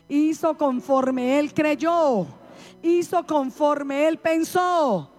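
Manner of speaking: slow, weighty reading of the verse; slow scripture reading. Shown as a demonstration. Preacher reading the verse slowly to the congregation. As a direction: lay each phrase down slowly.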